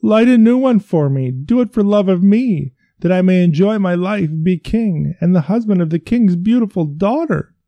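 high, loud desperate begging; horrified pleading. Acted. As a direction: beg for your life. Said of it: "said the horrified physician".

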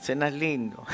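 softly voiced fatherly praise; gentle encouragement. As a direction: encourage tenderly, keeping it quiet. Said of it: "para animarlo".

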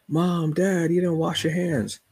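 put-on high, whiny kid voice calling out the parent; mimicking a tattling kid. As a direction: play the little snitch in the bathroom. Kids telling on parents.

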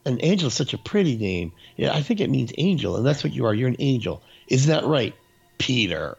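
lightly voiced gushing aunt; doting aunt. Aunt telling Peter he is now Angela, mock doting. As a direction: coo sweetly, imitating a doting aunt. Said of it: "to the mom, or, I mean, the aunt, and she's going".

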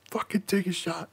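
high-pitched mock peer pressure; playful high-pitched urging; egging on. Egging friends on to drink.

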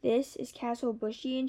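slow, lightly surprised question; a mild disbelieving exclaim; understated surprise, drawn out. Acted. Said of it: "she exclaimed".

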